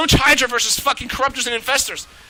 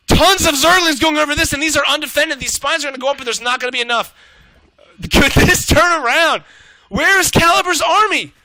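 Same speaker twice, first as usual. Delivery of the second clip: higher and louder, words slowing near the top; excited shout; 5 semitones higher, 5 dB louder than usual. Real, not acted. Caster to viewers as Zerglings swarm, excited and loud. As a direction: cry out at the sudden comeback. Game suddenly swings, shocked caster.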